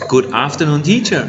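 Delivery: slow modelling. Shown as a demonstration. Models greeting for pupil to repeat.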